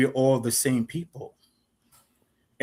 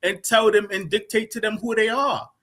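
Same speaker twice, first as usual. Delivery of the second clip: heated, higher-pitched scolding; raised pitch, real indignation; indignant; 6 semitones higher than usual. Real, not acted. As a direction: lecture them in rising exasperation. Heated argument over identity.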